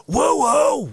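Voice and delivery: high, loud echoing woo-woo; echo chamber woo. Pretend. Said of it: "with an echo chamber effect".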